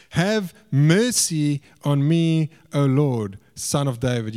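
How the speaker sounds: slow, drawn-out plea on HAVE MERCY; crying out for mercy. Retold or imitated. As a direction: read it as a measured cry for mercy. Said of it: "came out and was crying".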